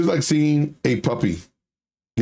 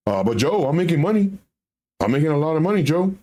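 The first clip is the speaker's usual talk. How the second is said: higher, eager excited investor; naive buyer voice; 3 semitones higher than usual. Retold or imitated. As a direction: boast like a clueless new trader.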